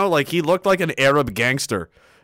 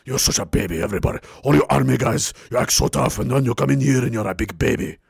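scolding doctor; 4 semitones lower, faster than usual. Retold or imitated. Doctor scolding army guys.

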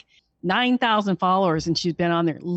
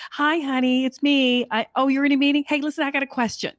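a lightly voiced mom, higher and chatty; imitating his mom; 6 semitones higher than usual. Guy on TikTok plays his mom calling, light mom voice. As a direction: play a mom calling her son at work. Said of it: "he'll play his mom".

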